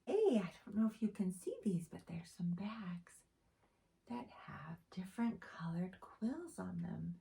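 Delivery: quick hushed whisper. Acted. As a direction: share it as a secret. Whispered aside to children.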